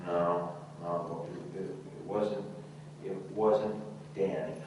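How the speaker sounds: soft, halting schoolboy denial; meek denial. Acted. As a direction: back down softly, stammering. Boy meekly denies to the teacher.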